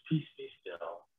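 low, hushed command; quiet, acted authority; calming command. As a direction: drop deep and soft to still a storm. Acted calming of seas and winds.

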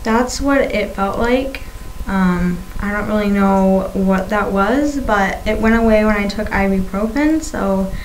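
talking around a swollen tongue; lisping with a fresh tongue piercing; tongue piercing speech. Real, not acted. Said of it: "having a hard time talking today".

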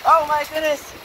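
surprised. Real, not acted. Hail smashing against wall.

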